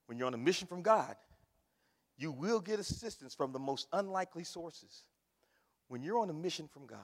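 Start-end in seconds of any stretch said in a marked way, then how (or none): 2.2-7.0 soft, near-whispered preaching; hushed. Real, not acted. Preacher whispering to the congregation about God's mission. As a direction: draw them in with a hush.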